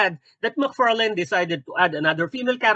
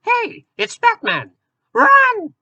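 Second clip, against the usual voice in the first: very high, loud cartoon shriek; panicked alarm; 7 dB louder, slower than usual. Troublemaker warns friends that Batman came, panicked squeal. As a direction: squeal a warning, stretching the words.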